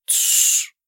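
hushed, choked hiss; a strangled whispered shush. A narrator's reading. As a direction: hiss it through a tight throat. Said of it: "сдавленно прохрипел Марк".

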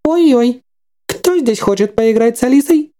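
high, playful creepy doll voice; sing-song like a haunted toy; jerky animatronic voice. Acted. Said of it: "голос механической куклы".

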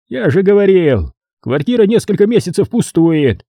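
high, gloating caretaker voice; злорадный смотритель. A narrator's reading. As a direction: crow it like a spiteful caretaker. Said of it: "Злорадно ухмыльнулся он". (злорадно, высоким голосом смотрителя)

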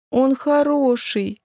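высоко и медленно, с нажимом; упрямо заступись за него; упрямый детский выкрик. A narrator's reading. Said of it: "выкрикнула она упрямо". (обиженная дочка спорит с мамой)

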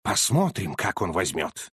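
low, calm and even; unruffled. Acted. Holmes calmly answers the colonel, low and unruffled. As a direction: say it coolly, unbothered. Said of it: "невозмутимо сказал Холмс".

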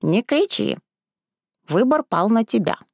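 lightly voiced old crone; old woman. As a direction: hush her and state her fate. Old woman calms her.

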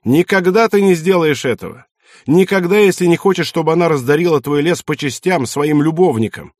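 loud, high and cutting; angry taunt. Acted. Son taunting his father loudly and angrily. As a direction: throw it in his face.

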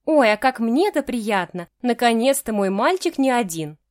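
put-on treat him like a little boy; mother thrilled her son brought a date; cooing mother. Mother coos over son's date.

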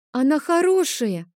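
put-on high-pitched little girl, upset; plaintive child's wail; tearful protest. A narrator's reading. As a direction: defend the doll in a high crying voice. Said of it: "Адель вновь заплакала".

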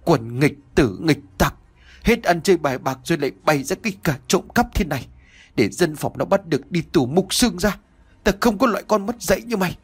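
panting, fast furious rant; enraged father scolding his son; breathless scolding. Acted. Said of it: "vừa thở hổn hển vừa nói như mắng".

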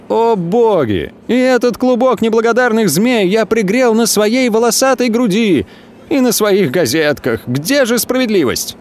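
lightly voiced theatrical lament; hammed-up grief to the heavens; mock pathetic exclaiming. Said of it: "патетически вздымает руки и восклицает".

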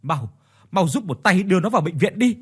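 a father pushing everyone to the hospital now; urgent, anxious command; urgent worried father. Acted. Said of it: "lo lắng gấp gáp nói".

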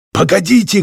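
high-pitched call to wait; shout. A narrator's reading. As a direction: shout up to halt them. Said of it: "крикнул Пелопит".

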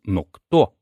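usual speaking voice

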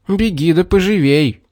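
high, bold shout at the bear; boy shouting after the fleeing bear. A narrator's reading. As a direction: yell to chase him off. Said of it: "крикнул Юрк".

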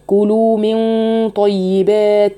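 slow طيبات with heavy ghunna; heavy nasal ghunna demo. Shown as a demonstration. Teacher shows students the heavy ghunna. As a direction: linger on the hidden nun before طيبات. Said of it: "طب إيه اللي أنا عملته".

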